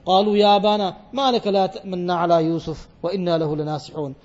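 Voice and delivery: fast melodic Quranic recitation, sweeping through the verse. Acted. Preacher reciting the verse to the congregation, chanted.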